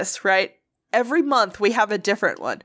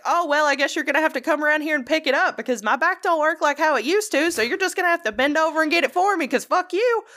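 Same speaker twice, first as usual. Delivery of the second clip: rude customer; 5 semitones higher than usual. Retold or imitated. Mock rude customer to cashier.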